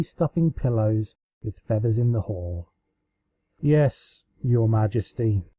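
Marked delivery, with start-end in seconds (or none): 3.6-5.5 deadpan. Acted. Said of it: "he deadpanned".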